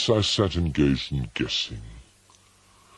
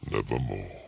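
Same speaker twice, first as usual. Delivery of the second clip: low, hollow raven voice; a dark low croak of a word; raven's croak; 7 semitones lower, 4 dB quieter, faster than usual. A narrator's reading. The raven answers the narrator, low and hollow.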